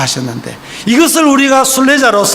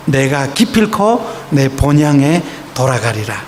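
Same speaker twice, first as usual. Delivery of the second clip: low, slow, solemn resolve; hushed determined promise; solemn vow; 6 semitones lower, slower than usual. Acted. Pilgrim's inner vow, quoted.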